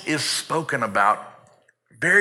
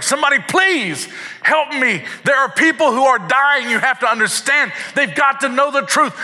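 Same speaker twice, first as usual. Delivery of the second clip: much higher, louder frantic plea; desperate cry; 12 semitones higher, 6 dB louder than usual. Retold or imitated. God crying out to his people, much higher and louder. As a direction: cry out for help as souls are lost. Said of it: "he's like".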